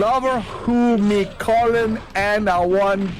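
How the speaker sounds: faked patois lyrics sliding into an Irish lilt; mock patois turning Irish. Man reads reggae lyrics, his patois becoming Irish. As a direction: read lyrics in a bad patois that keeps going Irish. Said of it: "See, it is becoming Irish".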